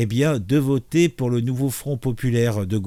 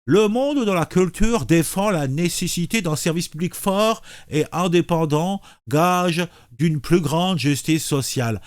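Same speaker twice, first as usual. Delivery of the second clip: lips pursed; 3 semitones higher than usual. Shown as a demonstration. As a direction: read through a tightly pinched mouth. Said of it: "la bouche en cul de poule".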